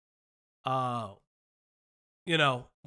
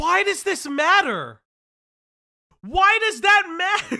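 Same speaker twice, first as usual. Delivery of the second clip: high, loud laughing disbelief; incredulous laughing; 10 semitones higher, 8 dB louder than usual. Real, not acted. Reacting to gossip story.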